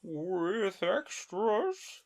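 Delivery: high, very slow worry; a little anxious. Acted. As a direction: ask it nervously. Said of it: "a little anxiously".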